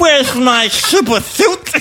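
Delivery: slow, high, sing-song movie line; half-sung quote from Incredibles; movie quote impression. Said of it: "he's also in Incredibles".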